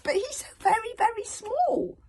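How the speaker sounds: incredulous consul. A narrator's reading. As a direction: stretch out very small in amazement. Consul marvels at tiny boy.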